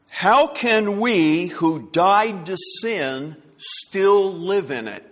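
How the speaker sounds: slow rhetorical question. Retold or imitated. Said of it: "This is how he puts it".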